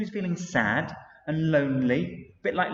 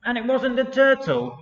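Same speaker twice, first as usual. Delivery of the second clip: higher, small beaver voice asking; lightly voiced little beaver, puzzled; 7 semitones higher than usual. Reading to children, Little Beaver puzzled and asking.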